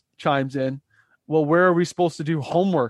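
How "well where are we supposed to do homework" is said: loud, indignant, irritated, pissed-off tone. Retelling a roommate's complaint about losing a table: imitating Frizz sounding pissed off. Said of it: "Like, all pissed".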